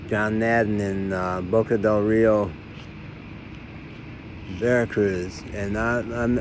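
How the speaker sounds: slurred, slow and sleepy; speaking thickly, still half sedated; groggy from anesthesia. Real, not acted. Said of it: "I know I'm talking funny".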